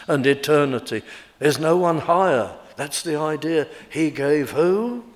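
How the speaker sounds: a preacher swelling with awe over the Son; fervent preaching. Acted. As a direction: lift it to a rising climax of praise. Preaching rises to climax.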